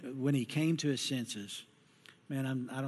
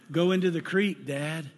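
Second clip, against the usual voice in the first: shaken confession; 2 semitones higher, 5 dB louder than usual. Retold or imitated. Daughter confessing crash.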